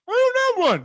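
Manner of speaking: high-pitched, loud squawk; silly cartoon voice. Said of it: "do that voice".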